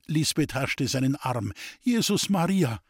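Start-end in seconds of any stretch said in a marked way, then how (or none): 1.8-2.8 high, pleading cry; frightened cry. Acted. Lisbeth crying out in fear as he reaches for the axe. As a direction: cry out as she grabs his arm. Lisbeth grabs his arm.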